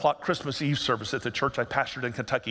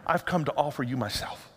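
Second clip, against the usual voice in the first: tender Jesus; 3 semitones lower than usual. Acted. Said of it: "Jesus says".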